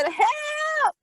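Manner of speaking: very high, drawn-out mock scream; screaming for help. Girl wrestled by men in church, screaming for help. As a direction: imitate a panicked high-pitched cry. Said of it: "and I'm screaming".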